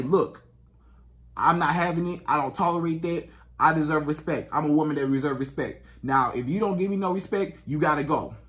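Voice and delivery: low, measured firmness; calm, controlled. Shown as a demonstration. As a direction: state the boundary without raising your voice. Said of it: "in a calm, controlled manner".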